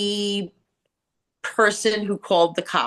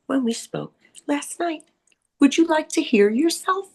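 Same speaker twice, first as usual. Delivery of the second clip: pitched-up, slowed, haughty client voice; imitating the client; 6 semitones higher than usual. Hairdresser showing how the difficult client spoke. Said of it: "this is actually how she spoke".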